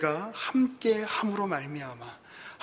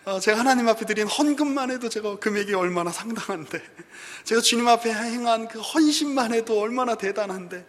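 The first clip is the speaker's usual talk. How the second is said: loud, higher, sulky grumbling at God; sulky complaint; 3 semitones higher, 5 dB louder than usual. Retold or imitated. Psalmist sulking at God, loud aggrieved complaint. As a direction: whine like a wronged child, louder. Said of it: "시편 기자는 하나님께 지금 삐졌습니다".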